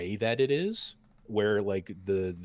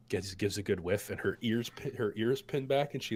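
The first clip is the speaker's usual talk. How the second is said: ordinary talk, nothing marked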